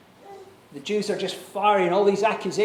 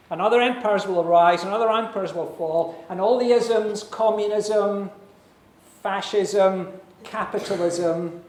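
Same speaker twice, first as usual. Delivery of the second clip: rising preaching climax; 2 semitones higher, 5 dB louder than usual. Real, not acted. Sermon climax building.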